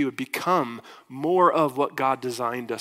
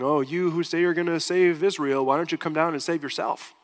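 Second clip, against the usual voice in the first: lightly mocking retold jeer; a touch of scornful mockery; 3 semitones higher than usual. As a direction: imitate a taunting challenge, mildly. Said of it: "they mocked him".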